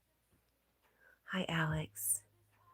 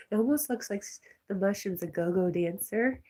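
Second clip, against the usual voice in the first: higher, louder, talking through laughter; tickled, laugh bubbling into the words; amused laughing; 3 semitones higher, 7 dB louder than usual. Real, not acted. Streamer describing the go-go dancer mushroom, laughing.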